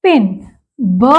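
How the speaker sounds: पिन, ब stretched slowly; slow down and separate पिन and ब; slow sound contrast. Shown as a demonstration. Teacher slowing down to contrast p and b. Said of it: "बिन".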